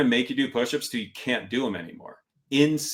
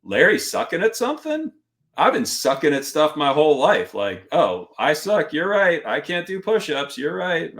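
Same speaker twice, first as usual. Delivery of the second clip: cheerful self-mockery; 5 semitones higher than usual. Answering the yelling instructor with cheerful self-mockery. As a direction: play it like happy news that you're bad at things. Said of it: "I'm like".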